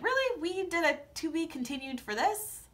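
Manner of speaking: high exasperated really; mock outrage at a letdown; voiced reaction to a cliffhanger, high and exasperated; annoyed disbelief. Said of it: "And I was just like".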